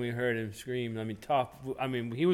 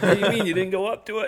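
incredulous; 7 semitones higher, 5 dB louder, faster than usual. Retold or imitated. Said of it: "And I said".

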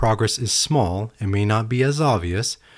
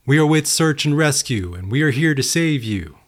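loudspeaker announcement; 6 semitones higher than usual. Acted. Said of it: "a voice came over a loudspeaker".

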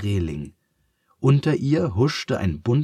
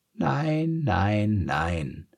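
angry and sad; much slower than usual. A narrator's reading. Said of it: "wurde nun etwas wütend und traurig".

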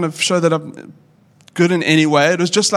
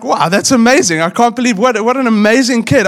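mock amazed; 5 semitones higher, 4 dB louder than usual. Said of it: "I was utterly shocked".

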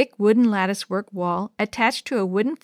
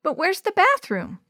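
put-on little girl voice; 10 semitones higher than usual. Yo-Yo voiced high.

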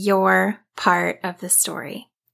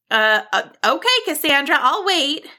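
higher, hesitant bird voice; confused; 6 semitones higher, 3 dB louder than usual. A narrator's reading. Bird agrees to wait for Cassandra, confused. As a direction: stumble into agreeing, puzzled. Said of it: "Barbara responded, confused".

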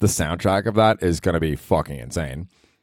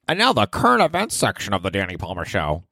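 mock announcer. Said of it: "mock announcer segment intro".

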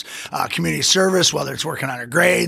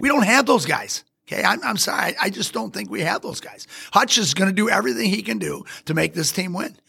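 fired-up, higher-pitched belief in the team; getting excited; 3 semitones higher than usual. Real, not acted. Fan hyping up his team's players to a co-host, excited. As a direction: talk yourself into real excitement. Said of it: "I'm getting a little excited right now".

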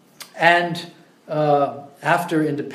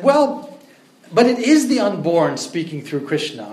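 adamant; 2 semitones higher, 3 dB louder than usual. Retold or imitated. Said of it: "became very adamant".

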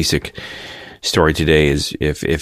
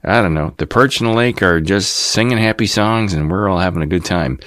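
folksy newscaster; 3 semitones higher than usual. Retold or imitated. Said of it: "it's really just a folksy".

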